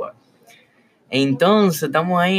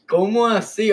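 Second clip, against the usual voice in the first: asombro; 9 semitones higher than usual. Real, not acted. Asombro ante el lujo.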